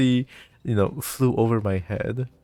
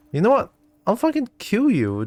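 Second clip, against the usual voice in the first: mock furious threat; 9 semitones higher, 3 dB louder than usual. Real, not acted. Frustrated threat at game character.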